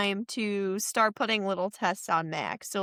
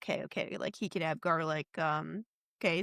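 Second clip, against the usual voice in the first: whispered aside; 5 semitones lower, 7 dB quieter than usual. Retold or imitated. Frog Brother conceding under his breath, whispered and deflated.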